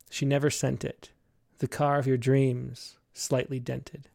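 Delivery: slow, measured poetry recital; poem reading. Acted. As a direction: read each image slowly. Reads a poem aloud.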